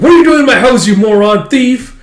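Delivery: very high, loud yell, slowing at the end; outraged shout. Retold or imitated. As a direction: scream at the intruder. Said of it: "It's like".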